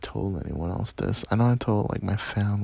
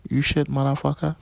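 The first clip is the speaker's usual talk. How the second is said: high, loud, hammed-up Indian accent; 7 semitones higher, 5 dB louder than usual. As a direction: curse them out loudly in a put-on Indian accent. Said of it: "a good Indian accent".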